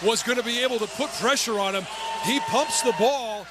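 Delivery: excited game call, building; live play-by-play. Real, not acted.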